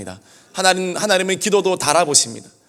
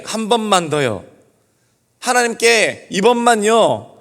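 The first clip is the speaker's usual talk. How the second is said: slow, earnest plea to God; 3 semitones higher, slower than usual. Retold or imitated. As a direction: beg slowly and sincerely. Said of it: "간절하게 기도하며". (간절하게 천천히 비는 기도)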